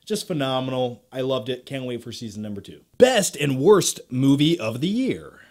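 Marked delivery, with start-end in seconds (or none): 3.0-5.4 Arnold voice. Acted. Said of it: "Why do I sound like Arnold when I'm thinking?".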